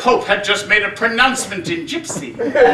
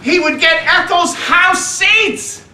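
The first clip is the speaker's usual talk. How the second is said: awed repeat; 7 semitones higher, 3 dB louder, slower than usual. Acted. Boy repeats father's words, thrilled.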